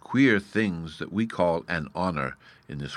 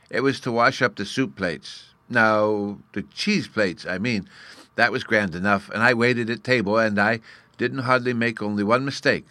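lightly voiced child, slightly raised; little fairy boy, proud; 3 semitones higher, 3 dB louder than usual. Bruno recalls waiting at table, proud little fairy.

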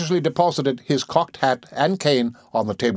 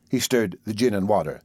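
plain reading voice

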